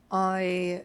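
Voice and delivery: a rough, light British accent; trying out a British accent, a bit off; attempted British accent. Shown as a demonstration. Actor asked to show off her audition accent, shaky British. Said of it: "it's going to be bad right now".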